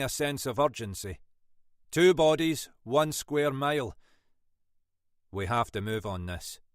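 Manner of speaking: gruff Scottish inspector, firm; lightly voiced Scottish detective. Munro briskly.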